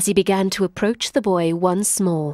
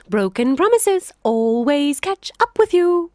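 high, laughing triumph; gloating jackal; 9 semitones higher than usual. Acted. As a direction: savor the trick.

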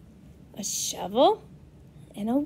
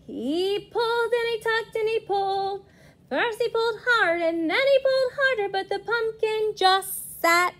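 effortful, rising storytelling; 7 semitones higher than usual. A narrator's reading. Strenuous pulling narrated.

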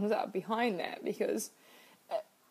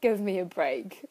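put-on higher, louder pleading young self; relieved inner girl; 3 semitones higher, 4 dB louder, much slower than usual. Her younger self begging for a break, higher and louder. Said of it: "the twenty-one-year-old ... was like".

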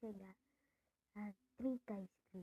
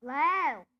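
loud yell, much higher; shout; 4 semitones higher, 17 dB louder than usual. Real, not acted. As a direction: yell a name across the house. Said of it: "desculpa que esse grito".

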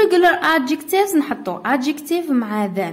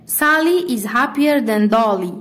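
dictation pace; much slower than usual. Shown as a demonstration. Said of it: "مثلًا".

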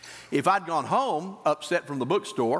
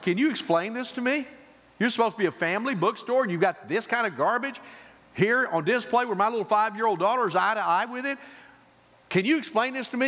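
higher, pressing demand for an explanation; indignant complaint; 5 semitones higher than usual. Retold or imitated. Father confronting bookstore manager about the display, indignant. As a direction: retell an affronted father taking a manager to task.

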